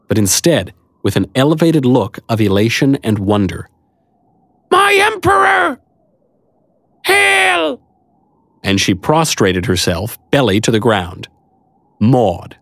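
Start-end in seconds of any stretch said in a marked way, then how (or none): 4.7-7.8 very high, slow squeaky creature shout; squeaky squirrel voice. Acted. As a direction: shout it like an ecstatic tiny squirrel.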